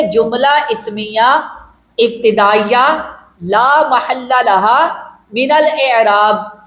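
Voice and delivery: slow, each term spaced apart; slow dictation. Shown as a demonstration. Teacher dictating the full grammatical analysis, slow and spaced. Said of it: "کیا کہیں گے؟".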